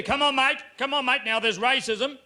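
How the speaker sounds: lightly voiced broad Australian official; casual Australian telling-off. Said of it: "It's so very Australian too".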